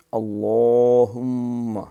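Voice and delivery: اللہم drawn out very slowly, chanted; recitation. Shown as a demonstration. Teacher recites prayer slowly for students. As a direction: intone اللہم in long recitation. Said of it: "ان کو پہلے ہم ایک دفعہ پڑھیں گے".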